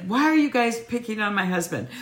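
high-pitched mock wifely protest; Libby, protesting. Co-host mocking Libby defending her husband, high indignant whine. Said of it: "she's always like".

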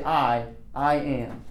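slow, doubled "I, I am"; stress on I. Shown as a demonstration. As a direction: say "I" twice, slowly, to stress it. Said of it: "he's emphasizing the I".

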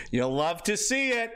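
slow, lightly imitated catchphrase; a hint of an impression, drawn out; Nick Fuentes impression. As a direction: stretch out the streamer's catchphrase. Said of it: "I'll just do impressions of them".

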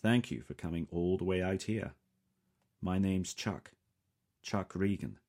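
lightly voiced Southern accent; a hint of a Southern accent, friendly; strong Southern accent. Chuck introduces himself to the visitor, light Southern accent. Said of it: "He speaks with a strong Southern accent".

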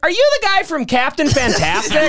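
high, eager fan question; excited calling out. Retold or imitated. Driver asking a passing actor, excitedly calling out. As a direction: call it out like a starstruck fan.

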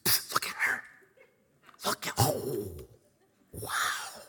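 breathy, awestruck whisper; hushed awe. Retold or imitated. Roommate nudging his friend about a woman he spots, awed whisper. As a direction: whisper it to your buddy, smitten.

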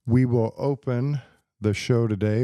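hammy Aussie "G'day, mate"; Australian accent. Pretend. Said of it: "this is my Australia accent".

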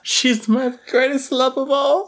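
high, drawn-out swooning; mock lovesick. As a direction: pine like a smitten movie hero. Co-host mocks the lovesick hero.

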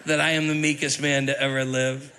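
playful gloat with a laugh at the end; mock gloating Moses. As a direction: tease like a petty author getting even. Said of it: "He's like".

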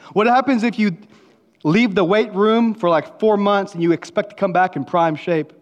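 rising, emphatic pulpit challenge; booming motivational speech. Acted. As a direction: push it out to the athletes. Preaching to athletes.

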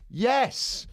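rising up in mock outrage; heated rant. Real, not acted. Heated rant about train.

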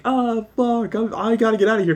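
high, hurried monster voice bailing out; a beaten monster grumbling and fleeing fast; Godzilla retreating. Retold or imitated. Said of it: "but Godzilla's like".

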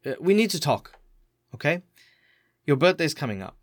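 mildly tender carer broaching news; softening mood. Acted. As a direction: ease a kid into a hard talk. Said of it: "her mood kind of softens".

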